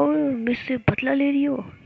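a playful gasp of disbelief; surprised. A narrator's reading. Ruhi teasing Jiya about taking revenge, mock surprise.

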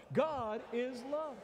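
high, slow, fervent phrase; telling the neighbor. Shown as a demonstration. Preacher modelling what to tell the neighbor, fervent. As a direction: proclaim it to the person beside you. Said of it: "Tell them".

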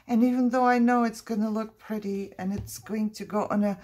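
high, emphatic playful lament; mock sentimental. Crafter parts with her pretty paper, mock sentimental. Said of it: "I'm getting all sentimental".

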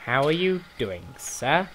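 mock-posh, polite greeting with a rising end. Player greeting Nick in the game, going all posh. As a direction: put on a slightly posh accent. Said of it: "I don't know why I'm going all posh".

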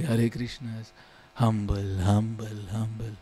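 a hint of a fed-up listener groaning; groaning audience. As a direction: roll your eyes at the cliche.

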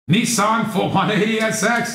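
Nissan said as Nee-sahn, commercial style; Nissan as heard in a commercial. Shown as a demonstration. Host shows viewers the ad pronunciation, Nissan as Nee-sahn. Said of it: "and I learned how to say it".

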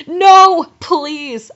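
loud, high no falling into a plea; begging. A narrator's reading. Heroine pleading with Voldemort, begging. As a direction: plead with hammed-up desperation. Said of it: "I begged".

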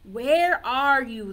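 loud, slow calling howl; howling wolf. Acted. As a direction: call out like a wolf. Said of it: "the wolf howls".

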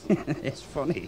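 laugh, then drawl it out slowly; slow, laughing mockery; slow amused taunt. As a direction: savour his discomfort with a chuckle. Taunting Smythe about his fear.

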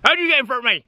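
lightly imitated Cotswolds accent. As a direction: mimic a surprised local with a touch of Cotswolds accent. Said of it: "typical Cotswolds accent".

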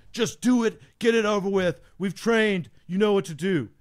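lightly voiced drill sergeant; firm urging, a touch of drill sergeant; drill sergeant mode. Sergeant urging a reluctant student over the wall, mild drill sergeant mode. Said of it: "starts getting in, like, his drill sergeant mode".

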